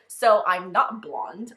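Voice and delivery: drawn-out, loud imitation of his accent; Chan's accent. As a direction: try his accent slowly, not very well. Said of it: "doing the same accent as him".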